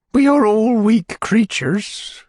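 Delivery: high, slow matron voice; high and drawn out, sighing the truth; Missus Corney. Acted. Matron stating a general principle, high and slow.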